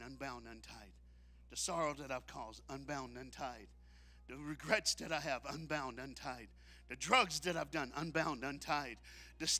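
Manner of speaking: low, hushed repeated refrain; soft litany. Acted. Preacher leads a hushed litany of release, soft. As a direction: speak it like a quiet prayer.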